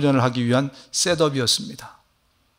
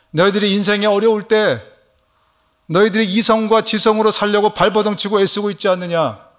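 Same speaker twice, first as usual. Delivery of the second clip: higher, pleading voice of Jesus; Jesus pleading with his struggling disciples, a bit higher; voicing Jesus; 4 semitones higher than usual.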